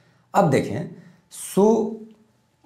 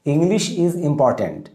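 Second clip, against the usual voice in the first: slow dictation; much slower than usual. Shown as a demonstration. Teacher dictating model sentence.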